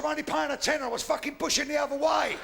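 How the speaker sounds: arguing back. Acted. Shouts back in fence quarrel.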